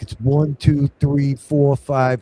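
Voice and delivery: a hint of a New York caller; New York accent. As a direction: imitate a New York bank rep casually. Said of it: "with a New York accent".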